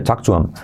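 "talk to him" said "talk tu 'em", no h; h dropped, linked. Shown as a demonstration. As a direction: glide "to him" into "tuem". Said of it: "se salta la H".

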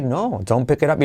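"No, don't pick it up" joined with a rise and fall; connected, tuneful "don't pick it up"; native up-and-down intonation. Shown as a demonstration. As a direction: say "No, don't pick it up" as one melodic reply. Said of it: "sube y baja que usan los nativos".

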